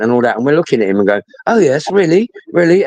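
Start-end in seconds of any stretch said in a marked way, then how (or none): 1.5-2.9 higher-pitched feigned surprise; mock interest. Trolls answering a communist paper seller, mock interest. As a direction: lead them on with put-on curiosity.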